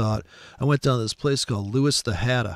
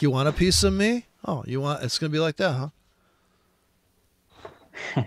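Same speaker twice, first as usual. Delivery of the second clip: spoiling for a fight, pitched up; belligerent Trump; 3 semitones higher, faster than usual. Retold or imitated. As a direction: taunt the reporter like a bully. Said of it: "He's like".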